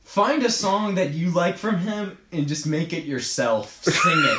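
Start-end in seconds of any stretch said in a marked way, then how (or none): 3.8-4.4 squeaky exclamation. Real, not acted. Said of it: "urging friend to sing".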